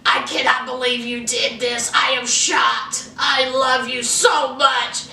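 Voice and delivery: overwhelmed with fake swooning; hammed-up teary shock; mock gushing girlfriend. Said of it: "she's like".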